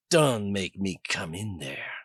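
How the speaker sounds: slow, leering threat; a slow, leering taunt to the caged woman. Acted. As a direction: lean into the leer, slow and greasy. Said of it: "he said with a leer".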